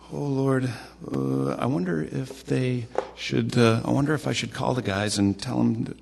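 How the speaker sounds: half-acted anxious wondering aloud; mock fretting. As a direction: draw out the hesitations as if fretting. Acting out his own fretting.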